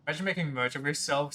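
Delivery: quick mock quote of herself; self-quoting. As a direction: rattle it off quickly, mocking. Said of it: "said the VTuber".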